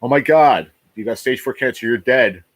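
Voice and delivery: imitating an upset well-wisher; imitated tearful sympathy. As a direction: gush mock condolences, drawing out the apology. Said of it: "They cry".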